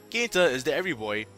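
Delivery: ordinary talk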